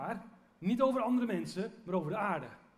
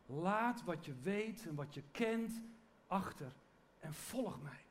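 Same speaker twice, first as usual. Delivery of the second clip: slow, hushed invitation, growing softer; quiet solemn call; 6 dB quieter, slower than usual. Retold or imitated. Preacher voicing Jesus's call to all of us, quiet and solemn. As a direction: let the call sink in slowly and softly.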